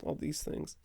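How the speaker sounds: high falsetto, easing down; falsetto joke voice. Pretend. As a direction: keep the joking falsetto, letting it sink. Joking apology, same put-on voice.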